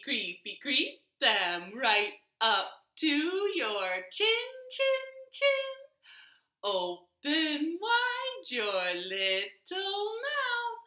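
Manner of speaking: slow sing-song finger-play chant; action rhyme. Shown as a demonstration. Storytime leader chanting a finger-play for toddlers. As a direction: lead the kids through the finger rhyme.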